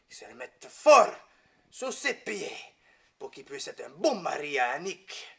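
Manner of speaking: lightly imitated French-accented blessing, swelling mid-way; priest's French accent. Priest blessing a groom's knee, lightly imitated French accent. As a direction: pray in a priest's French accent, punching up the key wish. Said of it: "the way he talks with that French accent".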